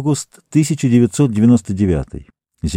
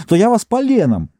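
shouted threat; 10 semitones higher than usual. A narrator's reading. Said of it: "закричала она".

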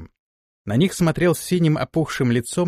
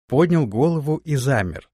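ordinary delivery

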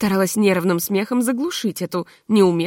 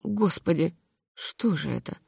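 horrified; 4 semitones lower, 7 dB quieter than usual. A narrator's reading. Horrified hosts.

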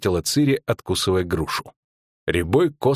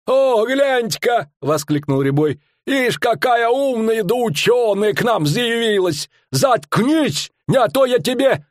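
a pitched-up showman bellowing his tale; fairground barker; 13 semitones higher than usual. Acted. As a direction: sell the monster to the crowd. Showman barker voiced in story.

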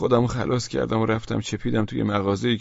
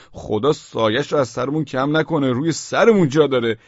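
rising to much higher, louder gushing praise; over-eager flattery; 4 semitones higher, 5 dB louder than usual. Acted. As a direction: heap praise on him nervously. Praising the unknown man anxiously. (تملق پرشور با صدای خیلی زیرتر و بلندتر)

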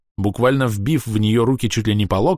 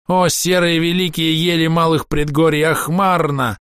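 high, slow crying-out prayer; frantic elf invoking the firs; shouted invocation; 8 semitones higher, slower than usual. A narrator's reading. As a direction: call on the firs at the top of his voice.

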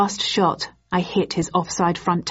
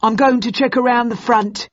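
shouting; 6 semitones higher, 4 dB louder than usual. Acted. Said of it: "shouted Bucket".

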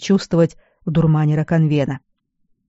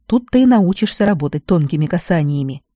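ordinary delivery

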